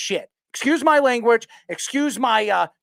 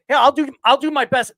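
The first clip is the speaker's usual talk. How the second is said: Stephen A. impression; 4 semitones higher, 4 dB louder than usual. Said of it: "my best personation of Stephen A".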